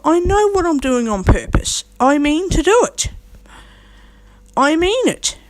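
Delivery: high-pitched, emphatic declaration; defiant insistence. Real, not acted. Speaker tells critics the temper is on purpose, defiant insistence.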